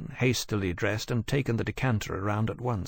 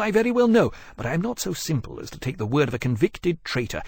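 cold retort; 4 semitones higher than usual. Acted. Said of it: "returned as coldly".

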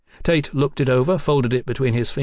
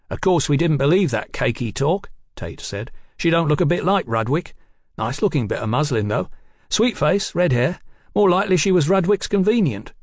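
higher, louder streetwise informant; cheeky rogue detective; 5 semitones higher, 3 dB louder than usual. Acted. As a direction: spill the news with cocky relish, pitched up. Voices Tate gossiping about the woman.

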